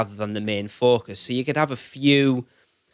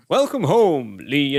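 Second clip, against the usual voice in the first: bad Scottish accent; 3 semitones higher, 3 dB louder, slower than usual. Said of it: "should have done it in a Scottish accent".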